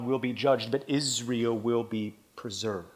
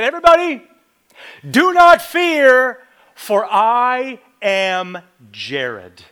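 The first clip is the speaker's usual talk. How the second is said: much higher and louder, slow, pompous announcement; mock grandiose proclamation; 9 semitones higher, 13 dB louder, slower than usual. Pastor mocks himself reassuring a panicked room, pompous booming proclamation. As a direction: play a self-important pastor calming a panicked room. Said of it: "That's ridiculous".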